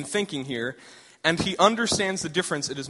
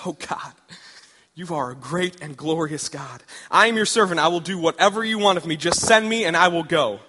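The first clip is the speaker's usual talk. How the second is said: eager Hosea. Acted. Hosea answering God, building from hushed to eager. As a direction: offer yourself to God with growing eagerness.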